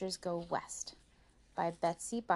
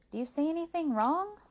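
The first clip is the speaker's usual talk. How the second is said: puzzled question; 10 semitones higher than usual. Acted. Puzzled sister questions the other.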